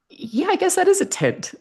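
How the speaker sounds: high-pitched, dawning realisation; sheepish surprise. Retold or imitated. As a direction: squeak it out as it dawns on you. Surprised to see the tent.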